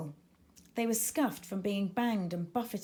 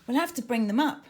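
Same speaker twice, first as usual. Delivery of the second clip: urgent call; 4 semitones higher, 8 dB louder, faster than usual. Acted. Urgent plan at sea.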